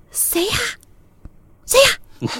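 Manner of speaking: shaky, trembling, hushed, slow whisper. Retelling a scary moment in a shower room: imitating a trembling whisper. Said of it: "颤抖的声音小声问".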